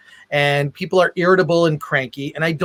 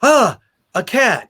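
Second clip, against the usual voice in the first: a mock startled yelp, higher, louder and slow; 6 semitones higher, 5 dB louder than usual. Interviewer mimicking a cheap horror movie jump scare, mock startled yelp. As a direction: ham up a fake fright at a cat.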